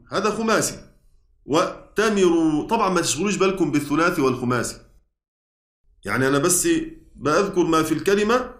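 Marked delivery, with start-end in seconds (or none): 1.5-2.7 وأتمروا said slowly, each syllable clear; slow clear demo. Shown as a demonstration. Teacher repeating the example word slowly. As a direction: spell out وأتمروا slowly for the class. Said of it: "عندنا كلمة وأتمروا".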